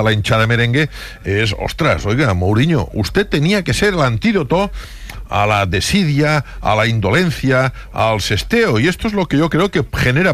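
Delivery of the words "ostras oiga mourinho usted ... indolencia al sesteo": interpelación teatral, alargando las palabras; reproche actuado. Acted. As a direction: reclama como un hincha, con subidas de tono. Hincha interpela a Mourinho. (reproche teatral, alargado)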